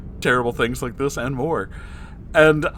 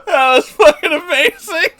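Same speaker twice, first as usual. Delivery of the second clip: excited; 14 semitones higher, 7 dB louder than usual. Real, not acted. Excited reaction.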